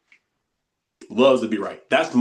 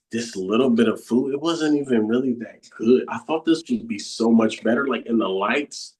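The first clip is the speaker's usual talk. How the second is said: lower, whiny restaurant complaint; complaining voice; 4 semitones lower than usual. Retold or imitated. Teacher mimicking the complaining ego about a meal, lower and whiny. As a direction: grumble like a picky diner who's never satisfied. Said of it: "This is what the voice in the head does".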